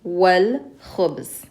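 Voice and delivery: "والخبز" with the lam sounded, wal-khubz; moon letter lam. Shown as a demonstration. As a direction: keep the lam clear before kha in "والخبز". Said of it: "we would say".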